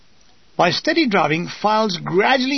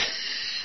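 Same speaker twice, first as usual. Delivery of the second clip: short unvoiced snigger; gleeful wheezy snicker; quiet mocking snigger; snickering laugh; 13 dB quieter than usual. A narrator's reading. Villain's laugh after taunting victims.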